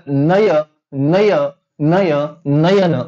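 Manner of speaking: "नय" in separate, stretched takes, ending on "नयन"; demonstrated pronunciation. Shown as a demonstration. Teacher letting students hear the ai sound, drawn-out "नय". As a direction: draw out "नय" so the ai sound shows. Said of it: "इथं कशाचा उच्चार झाला".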